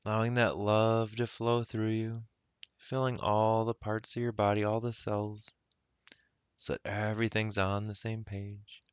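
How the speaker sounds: measured meditation guidance with long pauses; guided meditation. Acted. Guide helping listeners recall love, guided meditation. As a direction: gently lead them into the feeling.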